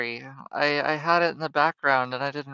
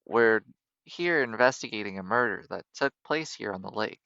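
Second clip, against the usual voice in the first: lower, measured character voice; earnest lawyer; 3 semitones lower than usual. Acted. Lawyer telling photographer about a murder investigation, earnest low voice. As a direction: explain it soberly, pitched down.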